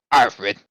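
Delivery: Alfred said again, deliberately corrected; corrected name. Shown as a demonstration. Game master corrects the corpse's name, clearing throat first. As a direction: fix the name Alfred with a careful retake. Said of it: "let me fix that".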